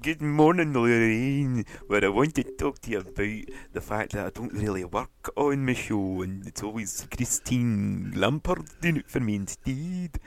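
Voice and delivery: slow, stretched-out morning TV presenter; hammed-up breakfast host parody; Lorraine Kelly. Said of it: "it's me, Lorraine Kelly".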